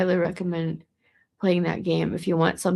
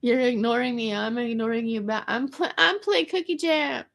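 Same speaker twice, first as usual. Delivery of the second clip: mock annoyed snap; 5 semitones higher than usual. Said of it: "I was just like".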